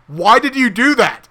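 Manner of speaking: mock upset homeowner.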